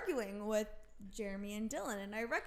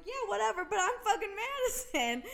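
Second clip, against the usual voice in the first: high, laughing retort; 9 semitones higher, 5 dB louder than usual. Retold or imitated. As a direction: toss it off through laughter.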